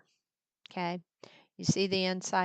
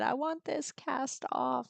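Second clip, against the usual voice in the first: imitating a child; 7 semitones higher than usual. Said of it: "and said".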